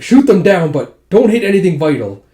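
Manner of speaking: loud barked order to the archers; a loud battlefield command; commanding shout. Retold or imitated. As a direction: shout the order across the yard.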